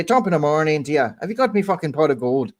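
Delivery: hammed-up stock Irish accent; mock Irish leprechaun talk. Shown as a demonstration. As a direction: put on a playful Irish brogue. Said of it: "Because I'm Irish as well".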